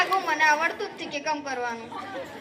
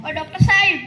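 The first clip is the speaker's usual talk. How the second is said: calling out; 2 semitones higher, 3 dB louder than usual. Acted. Calling the doctor from afar.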